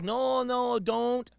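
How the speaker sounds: high, stretched-out fake pleading; mock protest. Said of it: "And I was like".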